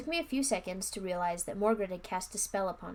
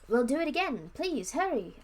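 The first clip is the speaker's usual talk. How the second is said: earnest plea, a bit higher and louder; begging; 6 semitones higher, 4 dB louder than usual. Acted. Children beg the wizard to cast the spell again. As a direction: ask him desperately. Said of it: "I begged him".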